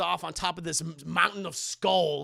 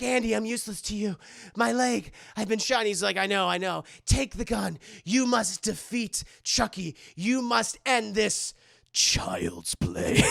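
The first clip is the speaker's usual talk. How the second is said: hammed-up dramatic movie dialogue, louder; mock melodramatic plea; 4 dB louder than usual. Wounded De Silva urging Andy to finish Chucky, hammed up. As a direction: overact the dying hero's speech. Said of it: "And she's like".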